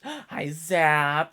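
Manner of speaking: light up at the sight of a friend; surprised happy greeting; excited gasp hello. Real, not acted.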